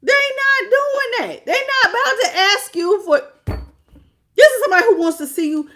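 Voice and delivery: high, loud, laughing through words; laughing at how awful they are. Real, not acted. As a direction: crack up while talking.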